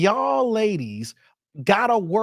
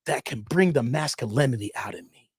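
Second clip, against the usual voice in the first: mock dude; 6 semitones lower than usual. Host imitating man asking fellas for help, lightly voiced. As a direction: lower mock dude's plea. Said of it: "Be like".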